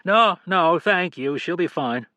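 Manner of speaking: a hint of a wary stranger cutting it short; curt male stranger. A narrator's reading. Narrator voices the stranger.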